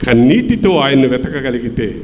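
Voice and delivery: ordinary talk, nothing marked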